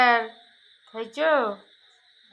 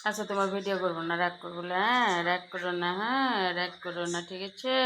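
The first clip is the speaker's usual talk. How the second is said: fast, softer soothing murmur; soft quick coaxing; 3 semitones lower, 3 dB quieter than usual. Real, not acted. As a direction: hurry to make peace with the pet. Soothing the sulking pet. (নরম দ্রুত গলায় মান ভাঙানো)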